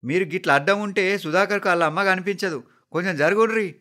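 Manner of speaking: high, annoyed yell; angry shouting. A narrator's reading. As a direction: scold the people blocking the way. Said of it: "ఇంకెవరో కోపంగా అరుస్తున్నారు".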